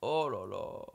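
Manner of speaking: low, soft relieved sigh; shaken sigh. Real, not acted. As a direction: exhale after a scare. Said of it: "j'ai failli faire un arrêt".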